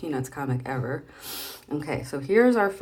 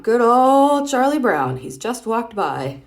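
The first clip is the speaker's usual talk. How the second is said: sweet on top, spiteful underneath; cartoon boy's two-faced aside; fake-friendly boy; 3 semitones higher, 9 dB louder, slower than usual. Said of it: "And then there's Charlie Brown".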